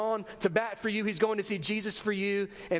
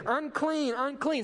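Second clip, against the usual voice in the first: higher, mock leper's warning cry across the street; calling out a warning; 6 semitones higher, slower than usual. Leper warning passers-by to stay away, higher mock call. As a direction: call it out so people keep their distance. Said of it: "get on the other side of the road and say".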